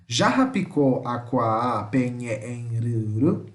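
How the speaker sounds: stretched syllables, teacher modelling pronunciation; slow pronunciation demo. Shown as a demonstration. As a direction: sound it out slowly for learners to get used to. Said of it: "Eu tô pronunciando duas vezes pra vocês se acostumarem com a pronúncia".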